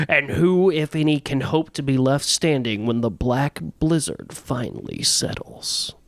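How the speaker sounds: barely-there movie trailer read; hint of a dramatic trailer narrator. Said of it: "I'm gonna read it in my ... movie trailer voice".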